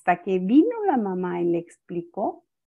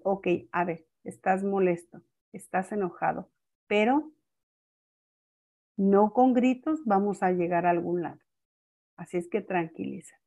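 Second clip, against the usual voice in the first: patient and calm; 4 dB quieter than usual. Retold or imitated. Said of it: "toda la paciencia del mundo y la templanza".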